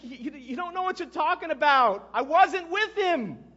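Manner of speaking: high, loud, stammering start into emphatic denial; shouted denial. Acted. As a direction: shout back, drawing out the last words. Panicked denial shouted back at guard.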